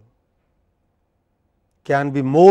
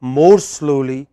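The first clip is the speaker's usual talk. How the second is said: drawn-out words, pushed louder; slow, deliberate; 5 dB louder, slower than usual. Shown as a demonstration. Teacher urging students to slow down, slow and emphatic. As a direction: stretch it out to show the slower pace. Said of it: "we must speak more slowly".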